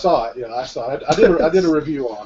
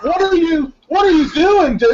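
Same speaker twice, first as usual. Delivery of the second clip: high, incredulous mock outrage; mock shocked characters; 11 semitones higher than usual. Friend voicing horror characters catching a guy in the corner, squealing. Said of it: "they're like".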